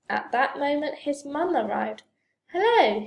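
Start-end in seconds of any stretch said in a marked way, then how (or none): 2.5-3.1 high, loud cheery greeting; bright-pitched, welcoming hello; smiling. A narrator's reading. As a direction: greet with a smile in the voice. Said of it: "she smiled".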